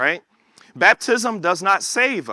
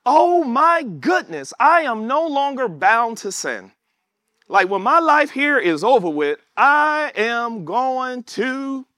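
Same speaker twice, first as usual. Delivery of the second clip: awed joy; 6 semitones higher, slower than usual. Retold or imitated. Voicing a newly freed believer.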